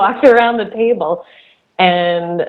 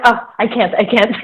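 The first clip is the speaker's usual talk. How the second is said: imitated French-accented doctor, slightly raised pitch; 3 semitones higher than usual. Dry-heaving doctor declining to help, imitated French accent. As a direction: mimic a queasy French doctor giving up. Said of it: "she had a French accent".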